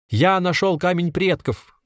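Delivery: high, drawn-out holler; shouting. A narrator's reading. Trapped man hollers to the crowd through window, shouting. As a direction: call out to grab their attention. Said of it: "закричал Анатолий в окошко".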